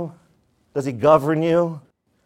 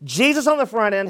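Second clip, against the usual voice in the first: raised-pitch, emphatic sermon delivery; preaching; 8 semitones higher than usual. Real, not acted. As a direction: preach it out to the congregation. Preaches the Great Commission.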